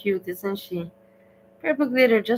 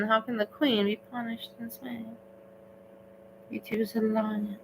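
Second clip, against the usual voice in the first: mock lament; 3 semitones higher, 8 dB quieter than usual. Mock-dramatic lament over music.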